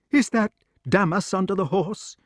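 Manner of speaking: the king, anxious from the window; excited old king. Acted. Arthur asking.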